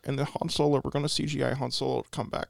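lightly voiced filmmaker impression; halting, lightly put-on director's voice; George Lucas. Director pitches his Star Wars script to Tommy, lightly voiced George Lucas. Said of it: "doing my George Lucas".

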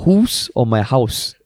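"house" twice, slowly, in two different ways; mock pronunciation. Shown as a demonstration. Host teasing back, slowly contrasting two ways of saying house. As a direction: drag out each "house" to compare. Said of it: "Do you go to my ho".

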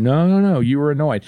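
rising-pitched run of no's; insistent contradiction. Acted. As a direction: firmly correct your partner. Acted rebuttal by significant other.

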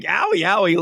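high little yelps of pretend hurt; mock pain. Boy running away from being shot, mock pain. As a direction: imitate a light, comic ouch. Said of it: "it hurts him".

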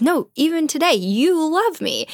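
high-pitched, hammed-up insistence; dramatic insistence. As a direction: press the mock accusation, pitch soaring. Acting Roxanne's insistence in quarrel.

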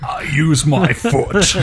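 slow, hammed-up dramatic delivery; overacting like a stage ham; hammy stage actor. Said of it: "didn't overact as much as Daniel Day".

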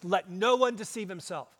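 "no one" leaned on firmly; emphatic NO ONE. Retold or imitated. Preacher quotes Paul's warning to the church, emphatic NO ONE. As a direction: stress "no one" as a firm command. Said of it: "in the most emphatic language possible".

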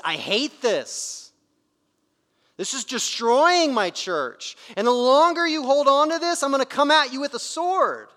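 Jesus's rising anger. Retold or imitated. Voicing Jesus' rebuke to church.

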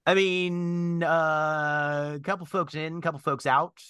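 slightly put-on high bird voice; Drummond. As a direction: report like a bird lookout, lilting up. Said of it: "and then Drummond's voice goes".

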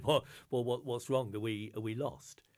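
nervous, tripping over words; worried stammer. Acted. Angus alarmed on the cliff.

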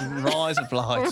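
"Rise, up, lights" blended like Australian "razor blades"; Australian demo, words run together; Aussie accent. Shown as a demonstration. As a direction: model the Aussie accent for a learner. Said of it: "Razor blades in Australian".

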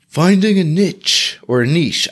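niche said first as "nitch", then as "neesh"; two ways to say niche. Shown as a demonstration. Testing how to say niche to the podcast listeners. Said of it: "I don't even know how to say it".

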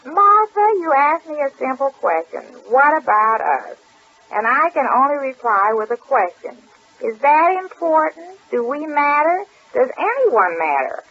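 lightly dramatized reading aloud from a novel; reading a character's lines. Acted. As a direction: read it out as the hero's earnest speech. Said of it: "this is him speaking".

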